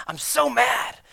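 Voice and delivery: high, loud whiny complaint; imitating an annoyed churchgoer, high and loud; mocking complainer. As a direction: whine like a petty grumbler. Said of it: "somebody came up and said".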